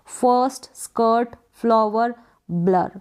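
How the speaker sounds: "फर्स्ट, स्कर्ट, फ्लावर, ब्लर" with schwa and a light r; half R. Shown as a demonstration. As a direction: model each of "फर्स्ट, स्कर्ट, फ्लावर, ब्लर" separately, r only half sounded. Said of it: "आर का sound half दे सकते हैं".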